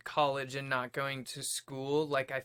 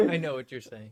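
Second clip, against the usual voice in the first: laughing; 11 dB louder than usual. Real, not acted. Laughs along.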